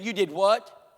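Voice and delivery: screaming mother. Retold or imitated. Mother to daughter who decided to become Christian, screaming. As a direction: act out an outraged mother. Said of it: "her mom's screaming at her".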